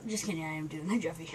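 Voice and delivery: quick soft whisper. Real, not acted. Teasing the viewers, whispering quickly. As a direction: whisper it fast like a secret. Teasing aside after refusal.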